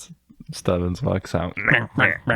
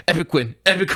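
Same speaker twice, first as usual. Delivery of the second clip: mock cheer; 7 semitones higher, much faster than usual. Retelling dabbing cheer.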